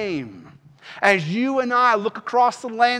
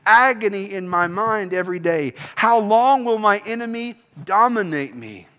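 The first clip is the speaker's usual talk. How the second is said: preacher's raised-voice lament to God; crying out; 2 semitones higher, 4 dB louder than usual. Acted. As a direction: cry out a psalm of lament, mildly louder. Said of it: "he cried out".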